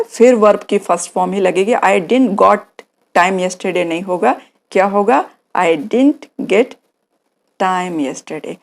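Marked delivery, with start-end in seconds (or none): 5.6-8.5 slow model sentence. Shown as a demonstration. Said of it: "मुझे कल समय नहीं मिल पाया था".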